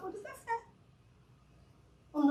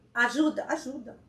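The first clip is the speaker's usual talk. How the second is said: ordinary delivery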